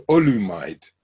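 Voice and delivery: Olumide said in three syllables, ending like "ride"; mispronounced name. Retold or imitated. Teacher naming a disruptive Nigerian boy, Olumide mispronounced to rhyme with "ride". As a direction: say Olumide with an English "-mide" ending. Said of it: "His name is not Olumide".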